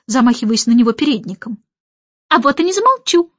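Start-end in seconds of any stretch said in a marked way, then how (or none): 2.3-3.3 higher, louder cheeky cry; defiant shout. A narrator's reading. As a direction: yell back in defiance. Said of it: "выкрикнул скворец".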